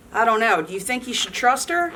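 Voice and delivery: lively storybook read-aloud; animated picture-book narration; reading to children. A narrator's reading. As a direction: read it to a room of kids.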